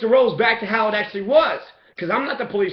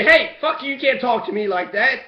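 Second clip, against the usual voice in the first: mock angry cop; 2 semitones higher, 3 dB louder than usual. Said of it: "if that cop tries to say".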